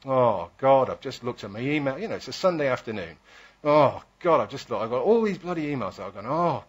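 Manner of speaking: imitating a fed-up email grumble, loud groaned openings; mock moaning. Friends grumbling about Sunday email, mock moaning. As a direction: moan it out like a weary complainer. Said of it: "people start bitching and moaning about email".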